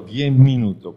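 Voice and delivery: indignant. Real, not acted. Outraged at ten minutes warning.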